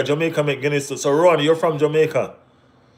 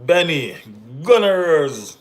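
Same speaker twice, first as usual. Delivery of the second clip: loud, high shout-out; calling out; 5 semitones higher, 7 dB louder, much slower than usual. Real, not acted. Streamer greeting fellow Gunners fan Benny, calling out loudly.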